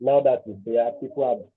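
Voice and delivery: muffled voice, as if covered. Real, not acted. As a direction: voice muffled, far from the mic. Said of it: "your voice is, is muffled".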